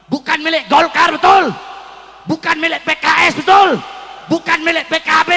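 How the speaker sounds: forceful call-and-response rally speech; fiery oration. Real, not acted. Preacher telling crowd no party owns Indonesia, fiery oration. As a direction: hammer each phrase, then punch the check to the crowd.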